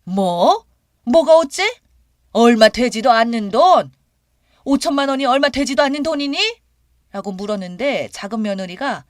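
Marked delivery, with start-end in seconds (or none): 0.0-6.4 loud, indignant mother-in-law; high, loud, outraged retort; furious. A narrator's reading. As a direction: throw it back in angry disbelief. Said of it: "머리끝까지 화가 나서".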